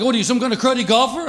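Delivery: retold scream. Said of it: "screaming at the top of his lungs".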